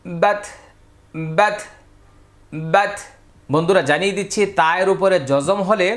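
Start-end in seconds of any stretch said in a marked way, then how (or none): 0.1-2.9 বাত with a puff of air on the t; slight final air. Shown as a demonstration. Teacher drilling ta with jazm, airy final t. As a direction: release a little breath as বাত ends. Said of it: "শেষের দিকে একটু বাতাস হবে".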